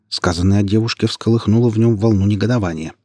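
usual speaking voice

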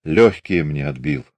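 low words gargled through blood; gurgling voice. Acted. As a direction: choke the words out wetly. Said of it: "заговорил он булькающим голосом".

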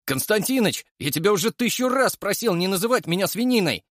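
high, heated protest at a nickname; indignant outburst. A narrator's reading. Artyom snaps at Yura over the nickname, high and indignant. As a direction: blurt it out high and hot. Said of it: "выпалил Артём".

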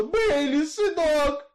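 high, loud cry for her son; heartbroken scream. Acted. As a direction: scream his name as if your heart breaks. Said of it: "и закричала". (громкий высокий крик, будто сердце разрывается)

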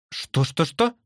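quick-fire bird chatter, voice lifting high. A narrator's reading. Sister bird asks what was meant, chattering. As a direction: chatter it as a puzzled question. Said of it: "затрещала сестра".

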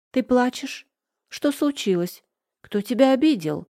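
high, anxious questions tumbling out; alarmed, demanding who hurt her; worried boy. Acted. Willy finds Polly crying, high worried questions.

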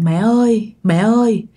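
mildly tearful son begging his mother; crying ghost son. Retold or imitated. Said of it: "chú Lắm khóc nha".

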